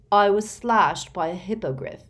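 milk the injury, smugly; smug whining boy. A narrator's reading. Malfoy complains about injury.

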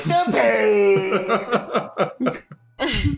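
high, whiny cry of pain; whiny pained patient. Pretend. Faking injury in her arms, high pained whine. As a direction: wail it like a hurt child. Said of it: "and I'm like".

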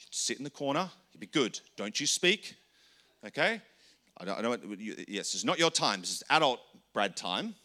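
a hint of a stern parent telling a child off; lightly voiced firm parent sending a child to the corner. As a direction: scold the little one into the corner. Scolding inner child to sit.

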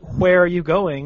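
WHERE begun with an audible H before the W; aspirated wh. Shown as a demonstration. Friend showing the correct way to pronounce it, aspirated wh. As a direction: say "hw" at the start of WHERE. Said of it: "is the correct way to pronounce it".

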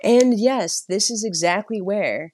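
lightly voiced, even-toned tour guide; measured guide patter with reassuring authority; calm tour guide. Guide walking tourists through witch trials, calm and even. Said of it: "really calming voices".

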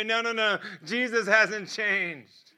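slow, deliberate, each word weighted; slow right down to drive it home; firm, earnest insistence; emphatic reassurance. Real, not acted. Assuring doubting students.

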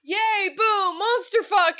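put-on high, loud kid cheer of monster fuck; excited toddler. Mom imitating her son cheering over his monster truck, high and loud. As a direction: cheer like a thrilled little boy. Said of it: "He'll go".

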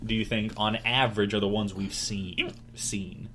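hiccuping between words; talking through hiccups. Real, not acted. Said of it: "Sorry for the hiccups".

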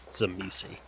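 soft mutter to himself; under his breath. Acted. Shaking his head before walking off, muttered under his breath. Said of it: "says under his breath".

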